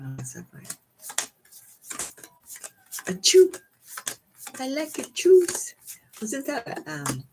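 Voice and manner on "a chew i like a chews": a playful hint of a stoner quote; half-hearted comic catchphrase; Cheech Marin.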